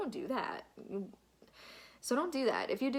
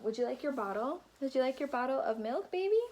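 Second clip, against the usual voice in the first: mom voice; 4 semitones higher than usual. Real, not acted. Offers baby bottle mid-vlog.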